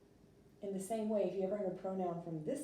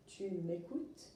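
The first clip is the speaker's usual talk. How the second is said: slow, careful French for learners; slow French model; slower than usual. Shown as a demonstration. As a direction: spell it out slowly in French. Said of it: "if you wanted to say".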